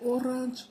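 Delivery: "orange" said as Spanish-sounding "o-RAHNJ"; Mexican-accented mispronunciation. Retold or imitated. Recalling husband's answer that made them laugh, "orange" with Mexican-accented vowels. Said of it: "But he couldn't say orange".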